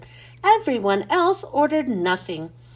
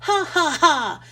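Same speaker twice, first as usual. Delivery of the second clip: a short hammed-up villain laugh; ha-ha-ha like a cackling witch; mock evil laugh; 3 semitones higher than usual. Potato salad teacher gloats at the boys, mock evil laugh. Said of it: "The potato salad laughed".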